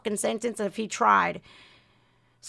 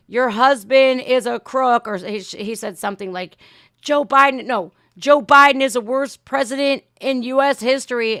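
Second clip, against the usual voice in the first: heckler's shout; 6 dB louder than usual. Retold or imitated. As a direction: heckle her from the crowd. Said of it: "somebody says".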